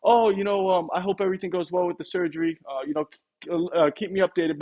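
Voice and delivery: high, caring sympathy for the owner; sympathetic salesman. Shown as a demonstration. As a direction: show real care before moving on. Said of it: "it could be something like".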